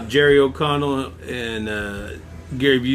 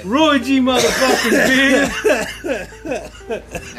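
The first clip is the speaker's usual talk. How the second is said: hyped up; 8 semitones higher, much slower than usual. Pretend. Hyped repeat of the name.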